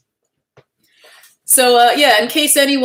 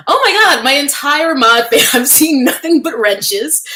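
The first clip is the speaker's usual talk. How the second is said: excited greeting; 7 semitones higher, 5 dB louder than usual. Real, not acted. Greets moderators in live chat.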